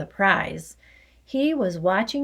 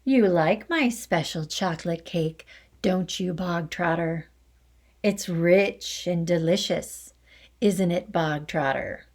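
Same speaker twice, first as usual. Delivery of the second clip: softer, friendly. Acted. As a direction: coax him with false kindness. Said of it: "her voice was suddenly softer, quieter, more friendly".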